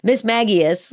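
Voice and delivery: "Magius" with a hard g, MAG-ee-us; three syllables in "Magius", hard g; settled pronunciation. Shown as a demonstration. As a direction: say "Magius" with g as in gap. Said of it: "let's say that".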